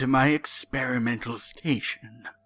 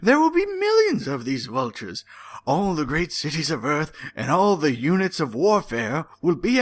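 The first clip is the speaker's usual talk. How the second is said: building villain rant; 3 semitones higher than usual. Acted. Villain monologue read aloud.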